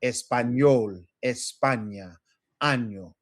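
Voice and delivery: Español, España, año with a distinct ny glide for each ñ; Español, España, año pronounced carefully for a learner; clear ñ sound. Shown as a demonstration. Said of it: "Making sure you get that ñe sound".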